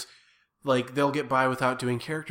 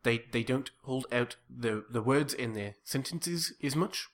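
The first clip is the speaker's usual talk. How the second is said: South African accent. Shown as a demonstration. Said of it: "the South African accent is very Dutch".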